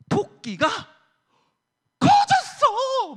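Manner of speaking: high, loud, hugely stretched picture-book shout; storybook exclamation. Acted. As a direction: read it big to delight the kids. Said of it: "뭐 이러면서 읽어".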